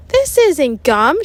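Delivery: slow, loud, high outraged shout. Acted. Ryan protesting the fake gum, slow loud shout. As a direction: spit it out in disgust, slowly. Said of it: "shouted Ryan".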